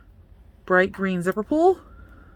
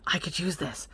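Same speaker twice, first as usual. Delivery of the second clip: hushed, whispered aside; pleased whisper; 7 dB quieter than usual. Real, not acted. Vlogger realizing she could use it, pleased whisper.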